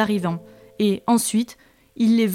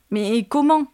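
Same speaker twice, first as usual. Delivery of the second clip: paniqué; 3 semitones higher, 3 dB louder than usual. Acted. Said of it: "dit celui-ci paniqué".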